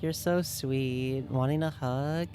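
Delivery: soft, cooing comfort for a viewer; tender hug voice. Pretend. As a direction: coo gently as you hug them close. Giving chat a pretend hug.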